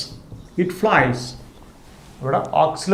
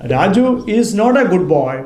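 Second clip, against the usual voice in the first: slow dictation; 3 semitones higher, 4 dB louder, much slower than usual. Shown as a demonstration. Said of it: "teacher dictates the sentence slowly".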